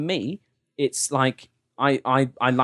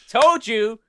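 smug high told you, louder; gloating; 9 semitones higher, 5 dB louder, slower than usual. Pretend. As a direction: rub it in, gleefully. Gloating imagined caller.

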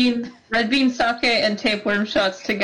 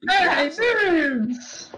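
higher, drawn-out mock cheer; playful toast yell; 6 semitones higher than usual. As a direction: call out a silly toast, drawing out the word. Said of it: "yell beans on the top of our lungs".

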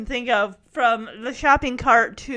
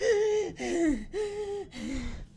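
mock wheeze; 6 semitones higher, 6 dB quieter than usual. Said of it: "she's wheezing".

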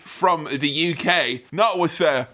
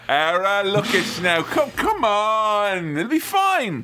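mock smooth Bond. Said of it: "Where he'd be like".

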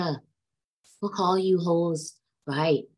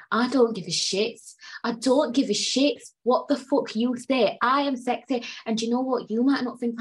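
defiant rant; 6 semitones higher than usual. Real, not acted. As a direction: defy the haters word by word. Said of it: "I went on a little rant".

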